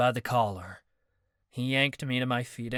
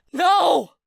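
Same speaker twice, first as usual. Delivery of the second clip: much higher, louder denial; insistent no; 11 dB louder than usual. Acted. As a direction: refuse the truth out loud. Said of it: "Marcus insisted".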